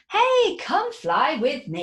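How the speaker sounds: loud call up high; cat calling out. A narrator's reading. Cat calls to George to fly with him, loud and high. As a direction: hail him from the plane. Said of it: "The cat looked and shouted".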